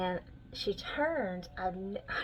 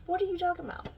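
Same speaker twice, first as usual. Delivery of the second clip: incredulous; 10 semitones higher, much faster than usual. Real, not acted.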